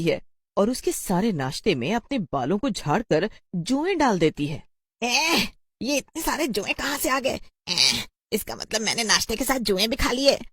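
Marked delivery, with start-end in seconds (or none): 5.0-10.4 put-on high girl's voice, appalled; disgusted schoolgirl. A girl finds lice in her breakfast, disgusted and alarmed. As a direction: squeal in dawning disgust.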